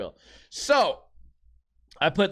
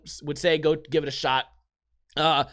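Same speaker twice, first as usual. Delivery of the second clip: normal talking voice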